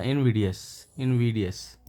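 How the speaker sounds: इनविडियस said in-VID-ee-us, short i; the common way: इनविडियस, not inVIDE; correct pronunciation. Shown as a demonstration. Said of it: "ये pronunciation है इसका". (सही उच्चारण: इनविडियस)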